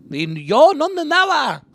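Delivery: put-on loud, high-pitched drunken accusation; accusing outburst. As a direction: hurl it across the room, voice way up. Drunk dad interrupts with accusation.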